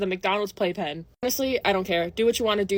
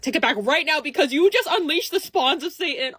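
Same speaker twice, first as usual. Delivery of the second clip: exaggerated outrage; 4 semitones higher, 3 dB louder than usual. Real, not acted. Mock outrage at Sephora kid trend.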